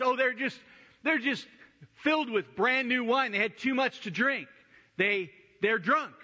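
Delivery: mocking scoffers. Mocking the apostles as drunk.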